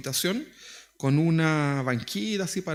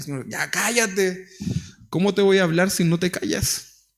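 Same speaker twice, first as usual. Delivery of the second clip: mock voice of God. The Lord answers the praying believer.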